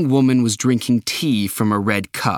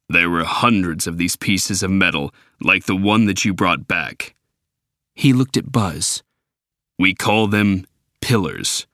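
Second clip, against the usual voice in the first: robot leader; 3 semitones lower than usual. Acted. Optimus explaining the Ark to the humans, lower and grave.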